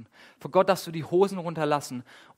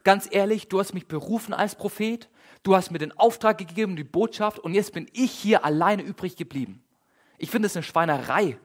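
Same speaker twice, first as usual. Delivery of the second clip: raised, higher, indignant complaint; mock shouting at God; 3 semitones higher than usual. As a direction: vent at God like a fed-up prophet. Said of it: "wie Elia Gott so richtig anschreit".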